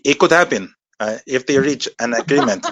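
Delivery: put-on a light go at a Mexican accent on request. At the host's urging, a mild Mexican accent. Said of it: "Do something as Tijuana".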